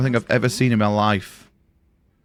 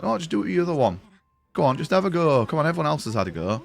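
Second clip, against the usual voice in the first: put-on Scottish accent; faster than usual. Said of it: "This is my Scottish accent".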